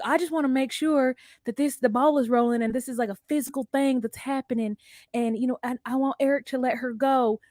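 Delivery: a hint of a sweet Southern belle. Co-host voicing Puppy to the lawyer, lightly Southern belle. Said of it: "She's got a Southern belle voice".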